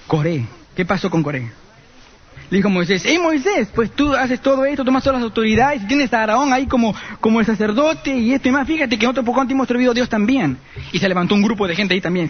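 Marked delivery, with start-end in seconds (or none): 3.0-10.6 higher, challenging voice of a rebel; a lightly voiced Korah confronting Moses; Korah, higher and cocky, demanding his share; defiant Korah.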